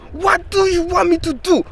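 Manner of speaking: the repeat, high and exasperated in a mock African accent; fed-up teacher says it again, accent held; imitated African accent. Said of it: "he did this funny accent voice".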